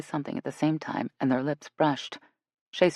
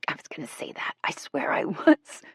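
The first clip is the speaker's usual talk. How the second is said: cackling. A narrator's reading. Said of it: "Shay cackled".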